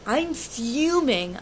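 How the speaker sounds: slow, emphatic "fuming" at normal volume. Retold or imitated. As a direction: lean slowly on "fuming". Retelling her anger, first take.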